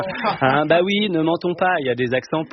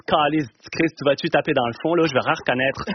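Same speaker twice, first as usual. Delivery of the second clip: put-on Quebec accent. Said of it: "moi je pars à Montréal cet été".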